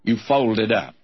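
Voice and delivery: a light sarcastic jab, read nearly plain; mildly sarcastic. Retold or imitated. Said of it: "in a very sarcastic manner".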